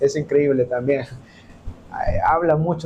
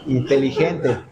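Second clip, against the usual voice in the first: a chuckle through inteligente; self-mocking laugh; laughing, wry; 2 semitones lower than usual. Real, not acted. Laughs at his own cleverness. (riéndose de sí mismo)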